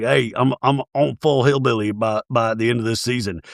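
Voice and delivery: lightly imitated Southern accent; Southern hillbilly accent. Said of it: "getting more of a Southern accent".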